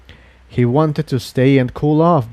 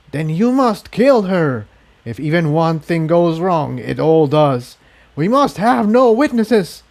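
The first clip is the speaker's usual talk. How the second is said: commanding alien voice; 5 semitones higher than usual. Acted.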